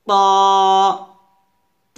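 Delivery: প said as a heavy "taw"; tongue firmly on upper teeth, প as rounded "taw"; full, dark emphatic T; thick forceful T. Shown as a demonstration. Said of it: "একটু জোর দিয়ে শক্তি খাটিয়ে লাগাতে হবে".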